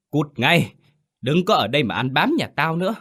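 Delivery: mother-in-law drives Hà away, high and fast; shrill scolding. A narrator's reading. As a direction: shriek her out of the house, quick. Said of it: "Giọng bà the thé vang lên".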